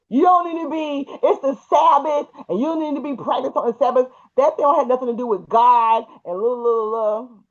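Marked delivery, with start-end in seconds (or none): 0.1-4.1 scolding. Retold or imitated. Retold husband scolding about the Sabbath.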